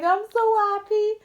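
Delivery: high hammed-up Scouse voice; mock Liverpudlian woman. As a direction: gush with joy in a put-on Liverpool accent. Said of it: "she's like".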